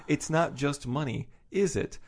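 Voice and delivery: mock-slow dawning on him, drawn out at the end; dawning realisation. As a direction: play up the dim guy catching on. Voicing Wheeler's dim realisation in quote.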